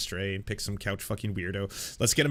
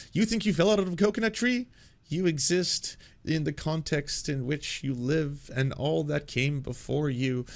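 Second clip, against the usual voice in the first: Kamala Harris; 3 semitones higher than usual. Retold or imitated. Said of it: "hear her talking about".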